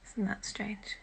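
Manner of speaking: soft unvoiced whisper. Real, not acted. Alone on stream, musing to viewers in a whisper. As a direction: hush it to yourself, amazed.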